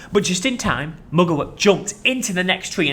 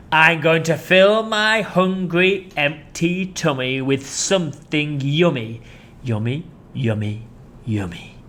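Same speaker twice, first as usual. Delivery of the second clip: relishing crocodile; slower than usual. Acted. Crocodile savouring the thought of children.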